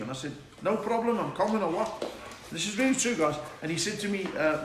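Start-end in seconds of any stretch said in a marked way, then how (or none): 0.6-2.0 high, chirpy mock Scouse; hammed-up Liverpool accent; put-on Liverpool accent. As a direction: call back in pretend Scouse. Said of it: "I was talking like that".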